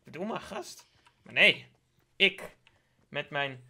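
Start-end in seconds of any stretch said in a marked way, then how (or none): 0.0-0.9 mock panicked viewer. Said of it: "Jullie hadden gedacht van".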